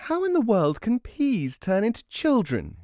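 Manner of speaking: high-pitched incredulous screech. A narrator's reading. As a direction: screech it in disbelief as the wife. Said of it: "she screeched".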